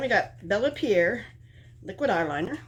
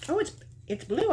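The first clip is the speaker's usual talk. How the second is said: surprised high pitch; 12 semitones higher than usual. Real, not acted. Surprised at the colour.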